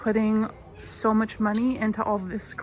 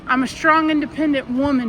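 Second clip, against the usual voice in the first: mock husband voice; 3 semitones higher, 5 dB louder than usual. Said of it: "he says".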